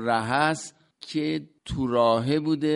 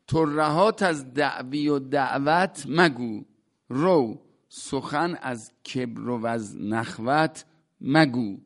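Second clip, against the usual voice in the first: measured, rhythmic recital of classical verse; poem recital. Acted. Teacher reciting a Rumi couplet to his class, measured recital. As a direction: chant the couplet slowly, weighing each word.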